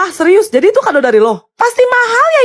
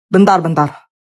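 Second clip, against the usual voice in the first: trying a monster voice; 14 semitones lower than usual. Pretend. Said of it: "Genderuwo sakit amandel tuh bagaimana bunyinya?".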